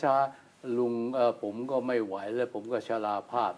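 put-on low, slow, soft, tired old man's voice; feeble old man. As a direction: drag it out like a worn-out old man. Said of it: "บางคนพูดนะ".

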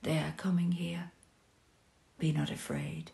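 hushed, frightened whisper; scared hushed warning; fearful whisper. Acted. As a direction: whisper as if they might hear. Fear of approaching soldiers.

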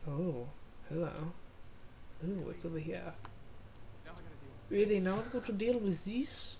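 put-on character voice in German accent. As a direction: voice the game guy with a German accent. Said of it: "Why are you making him German?".

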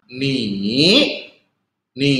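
"ni" drawn out on the third tone. Shown as a demonstration. Teacher showing the original tone to learners, third tone. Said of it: "itu artinya tiga".

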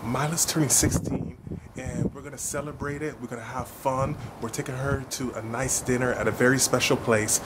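hushed vlog intro so Mila can't hear; whispering. Real, not acted. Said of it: "I have to whisper because Mila's in the house".

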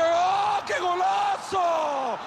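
breakneck goal commentary. Acted. Goal call in match commentary.

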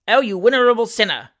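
loud teasing heckle; mocking cry. A narrator's reading. Another heckler teasing Pickwick, loud mocking cry. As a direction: call out a mock accusation. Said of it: "cried another".

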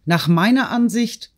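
high-pitched outburst without much added volume; crying out. A narrator's reading. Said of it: "schrie Natalie auf".

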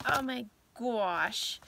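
choked-up breathy whisper of emotion; overcome, barely getting it out; emotional whisper. Real, not acted. To viewers, moved by a Christmas movie, tearful whisper. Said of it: "The reason why I'm so emotional".

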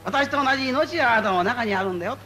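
lightly voiced deity reassuring the worshipper; voice of the Gohonzon. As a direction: speak as the deity inviting the believer. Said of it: "ご本尊様、中に開くんだと思って".

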